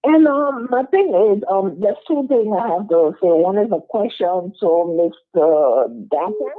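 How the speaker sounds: talking through a covering; words muffled by a mask. Real, not acted. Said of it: "you have something over your mouth".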